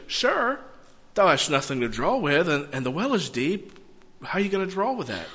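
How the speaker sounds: mildly puzzled, quickening at the end; sincere puzzlement. Shown as a demonstration. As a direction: ask it as an honest, puzzled question. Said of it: "she could say it one of two ways".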